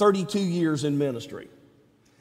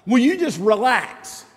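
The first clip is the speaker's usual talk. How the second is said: higher, lightly voiced God reassuring; calm a worrier who won't listen; God reassuring Israel about His plan; mock patient God; 5 semitones higher than usual. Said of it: "God's like".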